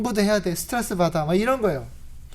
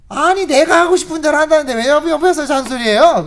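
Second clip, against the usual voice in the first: loud, high retort; wife shouting back at the nagging husband; wife snapping back; 7 semitones higher, 9 dB louder than usual. Retold or imitated. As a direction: fire back, fed up.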